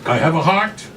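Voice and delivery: high, loud, lightly voiced madam feigning heart; sly madam. Madam to the grandmother, mock sentimental, high and loud.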